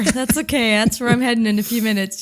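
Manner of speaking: stuffy head-cold voice; talking through a head cold. Real, not acted. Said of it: "kind of a head cold".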